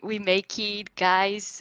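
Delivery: mock very slow, drawn-out, mild triumphant cheer. Retelling what the voice chat shouted: imitating others screaming. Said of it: "Everybody screaming".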